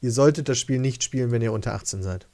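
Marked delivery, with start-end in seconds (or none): 1.3-2.3 belegte Stimme, etwas im Hals; Frosch im Hals. Real, not acted. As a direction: sprechen mit Kratzen im Hals. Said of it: "Sorry, ich hatte was im Hals". (Frosch im Hals, belegte Stimme)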